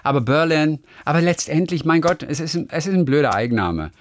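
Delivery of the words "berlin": English "Berlin" with stress on BER; front-stressed English "Berlin"; odd-sounding Berlin. Shown as a demonstration. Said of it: "Das klingt komisch".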